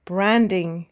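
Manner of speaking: BRAND-ing, weight on the first syllable; first-syllable stress. Shown as a demonstration. Teacher answers the exercise with "branding", first syllable stressed. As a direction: stress the start of "branding", ending unstressed. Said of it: "stressing, of course, the first or second syllable".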